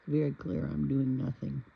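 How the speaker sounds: loud, sassy cat voice; voicing the cat. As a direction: speak for the cat, deadpan. Voicing the cat's reply.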